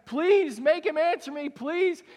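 cling and beg; a mother begging the disciples, high and loud; pleading. Acted. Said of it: "hanging on them and crying".

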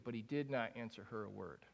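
soft, sinking repeat of the verse; quiet, weary admission; hushed. Shown as a demonstration. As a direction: say it like an ache you carry. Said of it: "living in verse twenty-three".

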